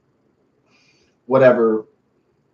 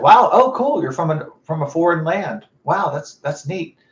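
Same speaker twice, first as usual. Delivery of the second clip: impressed reaction; 4 semitones higher than usual. Retold or imitated. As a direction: open on a big wow, then ease into admiration. Retelling admiration for a foreigner.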